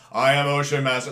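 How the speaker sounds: half-hearted villain's shout; loud but underpowered mock proclamation; mock yell. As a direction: imitate an actor faking a yell to a crowd. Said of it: "how many people he was actually yelling at".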